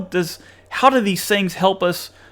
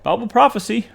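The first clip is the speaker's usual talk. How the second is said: mock nonchalance; 5 semitones higher than usual. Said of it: "look out in this hateful world that we live in and just say".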